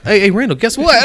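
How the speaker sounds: loud, high-pitched baiting call; mock taunt. Spinelli sets up Randall for a put-down, mock taunting call.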